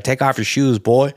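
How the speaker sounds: lightly imitated Arkansas order; a hint of Arkansas, at talking pace; Arkansas husband. Husband orders the visitor, mild mock Arkansas. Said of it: "It's like Arkansas".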